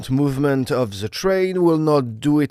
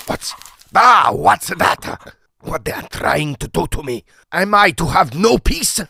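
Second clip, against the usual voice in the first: sharp, indignant, loud-ish; irritated outburst; 4 semitones higher, 4 dB louder than usual. Acted. Snowbound passenger finds the note under his door, indignant. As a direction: snap back at being disturbed.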